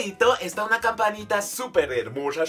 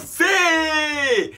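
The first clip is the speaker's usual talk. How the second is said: excited helium shout; 13 semitones higher, 7 dB louder than usual. Real, not acted.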